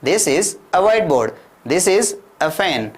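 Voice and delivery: slow, clear classroom drill; slow model sentence. Shown as a demonstration. Teacher drilling simple sentences slowly for learners. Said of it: "क्या कह दिया?".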